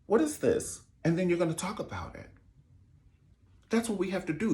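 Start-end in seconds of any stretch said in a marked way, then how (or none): 0.0-0.8 high, slow outraged bride; mock bride. Bride to the dressmaker over a stained gown, high slow outrage. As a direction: squeal at the dressmaker about the stain.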